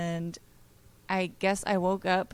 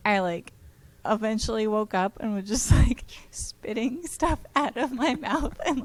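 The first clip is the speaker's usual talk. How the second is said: whisper. Real, not acted. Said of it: "unvoiced whisper measured".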